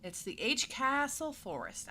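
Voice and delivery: put-on Southern accent. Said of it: "starting to go into my other accent".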